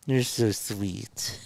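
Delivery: slow, tender coo to a pet. Real, not acted. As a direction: melt over the dog, slowly. Cooing at dog.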